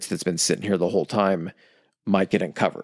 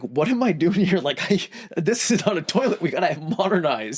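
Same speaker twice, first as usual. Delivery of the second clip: much higher put-on voice; acted high-pitched protest; complaining new student; 8 semitones higher than usual. Student at school finding no toilet, high mock complaint. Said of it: "and you're gonna be like".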